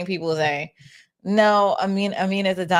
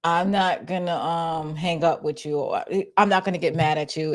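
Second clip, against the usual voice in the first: mock weary, halting delivery; exhausted; 2 semitones lower than usual. Host imitates the man on the audio, exhausted. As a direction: imitate a worn-out man, pausing between phrases. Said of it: "he sound like he's exhausted".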